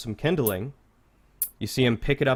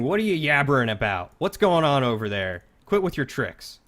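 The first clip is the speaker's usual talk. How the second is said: suspicious guard yell; 3 semitones higher than usual. Acted. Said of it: "And he's screaming".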